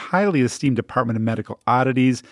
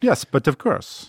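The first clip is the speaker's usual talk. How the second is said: slow, put-on French accent; mock French accent; slower than usual. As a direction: agree with hammed-up French politeness. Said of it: "kinda like your French accent".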